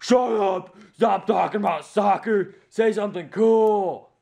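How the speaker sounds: high, loud mock-whiny complaint; annoyed viewers. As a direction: whine it like fed-up viewers. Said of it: "everyone else is like".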